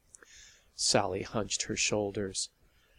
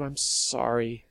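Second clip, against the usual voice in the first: miserable. Acted. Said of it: "Sally added miserably".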